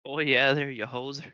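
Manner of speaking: put-on slow, drawn-out Canadian accent. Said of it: "your Canadian accent".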